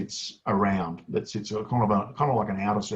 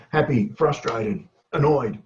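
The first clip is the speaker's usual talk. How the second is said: excited word boxing; 3 semitones higher, slower than usual. Shown as a demonstration. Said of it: "a little bit of effective word boxing".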